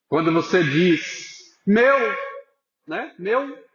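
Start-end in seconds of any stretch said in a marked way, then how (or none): 1.7-2.0 higher, lightly imitated exclamation; mock exclamation of amazement. Preacher imitating people's casual exclamation at home, mildly amazed. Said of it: "aquela admiração que você faz". 3.2-3.6 softer, higher imitated exclamation; mock amazement. Preacher echoing the congregation's everyday exclamation, mildly amazed. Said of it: "aquela admiração que você faz".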